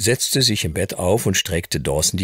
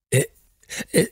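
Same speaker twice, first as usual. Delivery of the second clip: put-on high, breathless child blurting out; boy amazed by his new playroom, high and stammering; excited stammer; 10 semitones higher than usual. A narrator's reading. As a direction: stumble over words in amazement. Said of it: "stieß er schließlich aufgeregt hervor".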